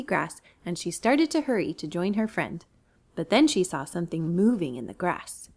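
put-on storyteller voice for kids; reading to children. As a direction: read it gently to little ones.

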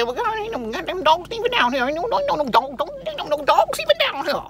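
put-on high, comic old Southern man; old Southern Black man voice. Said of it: "That's my old black man from the South voice".

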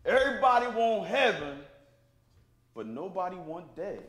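put-on a heartfelt proverb in Jamaican accent. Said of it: "in my most earnest Jamaican voice".

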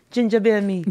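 light Jamaican patois; a playful hint of Jamaican accent. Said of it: "Did you hear the accent?".

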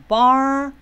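"barbecue" broken as bar, be, cue, with a long first beat; three separate syllables. Shown as a demonstration. Teacher showing the word has three syllables, "barbecue" said beat by beat. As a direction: split "barbecue" into three clear beats, stretching "bar". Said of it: "就这三个音节咯".

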